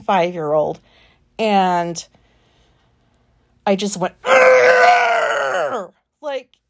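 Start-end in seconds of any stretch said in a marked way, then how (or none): 4.2-5.9 put-on high, loud toddler-tantrum "Argh!" with balled fists; frustrated shout. Shown as a demonstration. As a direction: let out a short, loud yell of frustration. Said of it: "ten times louder than that".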